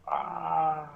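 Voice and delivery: soft, drawn-out "ah" dying away; imitated spirit cry, trailing off; fading wail. Caller imitates the voice fading out, soft distant wail. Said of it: "it was fading out".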